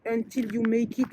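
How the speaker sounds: English with a rough French accent. Real, not acted. Vlogger quoting a motto to viewers, French-accented English. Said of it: "j'ai un vieil accent anglais".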